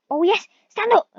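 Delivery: high, loud burst of joy; excited cheer. Real, not acted. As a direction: cheer the cow up onto its feet. Cheering the cow to stand.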